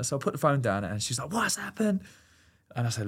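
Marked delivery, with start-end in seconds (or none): 1.3-2.0 much higher, lightly voiced anxious girlfriend; a hint of a fretful partner; worried girlfriend. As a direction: ask it in her worried pitch.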